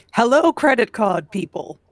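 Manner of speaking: robotic-sounding voice, like a robot. Greeting the others on joining: robotic-sounding voice. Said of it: "you sounded like a robot".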